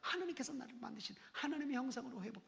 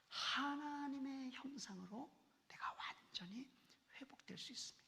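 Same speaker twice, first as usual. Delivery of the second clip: hushed prayer; 2 semitones higher, 5 dB quieter than usual. Acted.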